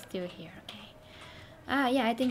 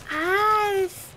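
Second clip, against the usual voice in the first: frustrated outburst; 7 semitones higher, 7 dB louder than usual. Real, not acted. Frustrated at missing shots.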